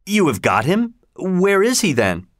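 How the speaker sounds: high, urgent disbelief; startled questions. Acted. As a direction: press Holmes in amazement. Stunned by Holmes's claim.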